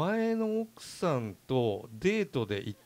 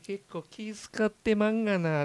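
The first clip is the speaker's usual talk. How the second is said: host teasing Kyoto guests in put-on Kansai dialect; mock Kansai dialect; 3 semitones higher than usual. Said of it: "本当に大阪弁".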